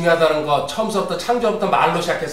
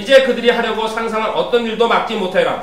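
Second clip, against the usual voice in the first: brisk, raised reading voice; scripture reading; 5 semitones higher, 5 dB louder than usual. Acted. Teacher reads Genesis to the class, brisk scripture reading. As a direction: read the verse out briskly and firmly.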